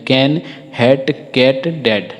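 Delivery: कैन, हैट, कैट, डैड spaced out with an e-like a; short a demo. Shown as a demonstration. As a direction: slowly model each word, कैन, हैट, कैट, डैड. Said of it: "इस प्रकार से उच्चारण होता है".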